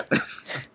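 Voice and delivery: breathy laugh. Retold or imitated. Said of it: "That was a great Danhausen".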